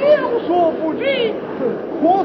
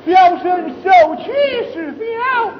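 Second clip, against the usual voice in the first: indignant outcry. Acted. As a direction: cry out the injustice. Young man protests his wrong. (愤愤不平地高声申诉)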